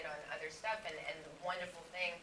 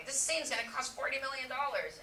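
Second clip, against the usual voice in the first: higher, louder imitation of alarm; mock freak-out; 8 semitones higher, 5 dB louder than usual. Studio balking at a scene's cost, imitated freak-out. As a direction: imitate a studio panicking over the budget. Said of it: "The studio's freaking out".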